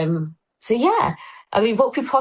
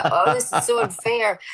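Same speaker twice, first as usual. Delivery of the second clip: put-on sulky teenager; 3 semitones higher than usual. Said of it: "my Kevin and Perry stage".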